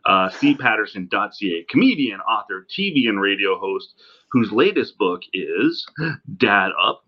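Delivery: distant laptop mic sound; like it's recorded from the next room; from another room. Real, not acted. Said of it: "me sounding like I'm talking from the other room".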